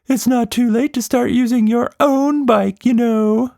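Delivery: high monster voice, offended; a huffy creature taking offence; high, indignant monster retort. Acted. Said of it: "Quatsch Monster said indignantly".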